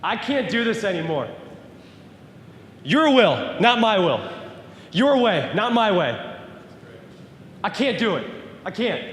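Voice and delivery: high, strained plea that fades to a soft break; desperate cry to God. Retold or imitated. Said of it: "I yelled, I said".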